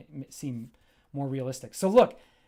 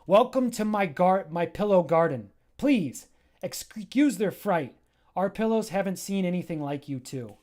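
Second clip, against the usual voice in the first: Charda welcoming; 2 semitones higher, 4 dB louder than usual. Acted. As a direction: welcome guests with a touch of grandeur.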